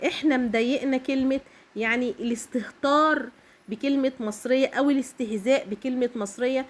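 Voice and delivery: ordinary talk, nothing marked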